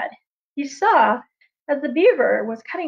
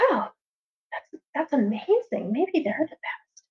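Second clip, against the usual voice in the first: soft, slow wondering thought; quiet awe; humbled raven; 6 dB quieter than usual. Acted. The humbled raven, watching the bees, softly amazed. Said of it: "And he thought".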